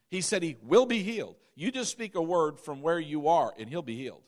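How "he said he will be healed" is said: firm, certain weight on "will"; stress on WILL. Shown as a demonstration. Preacher correcting "might" for his listeners, stressing "will". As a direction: land firmly on "will" as the answer. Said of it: "the emphasis on words".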